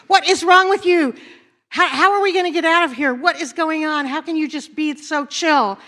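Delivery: lightly acted panic at being stranded; a hint of a frantic castaway; panicky stranded man.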